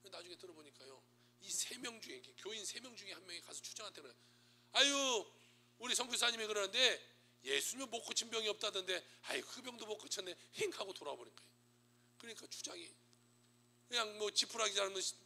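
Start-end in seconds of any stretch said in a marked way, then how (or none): 4.7-10.7 high, loud teasing sneer; mocking taunt. Church member taunting the chief about the missionary, high loud sneer. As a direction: needle him with a sing-song jeer.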